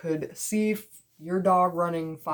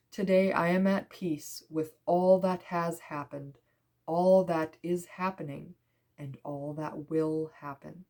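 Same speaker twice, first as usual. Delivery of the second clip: measured, deliberate affirmation; affirmation reading. Real, not acted. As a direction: read it out phrase by phrase. Reads affirmation from card.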